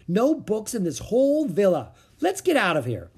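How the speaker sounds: put-on young girl complaining loudly; high, loud complaint. A narrator's reading. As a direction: grumble it out, ready to go. Annie complaining, wants to leave.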